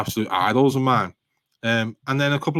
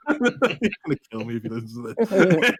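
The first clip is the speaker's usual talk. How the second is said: teasing aside; 4 semitones higher than usual. Real, not acted. Teasing bandmate about his guitar.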